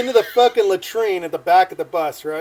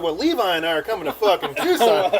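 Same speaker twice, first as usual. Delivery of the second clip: amused repeat in the usual voice; incredulous echo. Retold or imitated. Seatmate hearing himself included in the plan, amused disbelief. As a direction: echo it in disbelief, half laughing.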